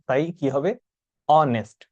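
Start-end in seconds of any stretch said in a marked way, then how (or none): 1.3-1.8 অনেস্ট said with no h sound, starting on the vowel; silent h in honest. Shown as a demonstration. Teacher correcting the class's pronunciation, silent h. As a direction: drop the H: অনেস্ট. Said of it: "অনেকে উচ্চারণটাকে হনেস্ট বলেন, কিন্তু না".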